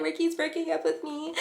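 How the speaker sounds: high, soft mock whimper; hammed-up crybaby voice; playing the victim. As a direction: imitate a tearful boyfriend pitifully. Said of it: "Being the victim, of course".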